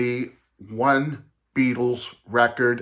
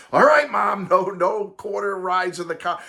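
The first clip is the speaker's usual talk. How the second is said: lightly voiced kid conceding to mom; little kid giving in; 5 semitones higher than usual. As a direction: grudgingly accept like a disappointed boy.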